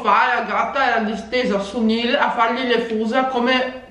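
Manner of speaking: chewing between words; talking while snacking; mouth partly full. Real, not acted. Seen 0: Holds food by her face while talking; took a bite just before.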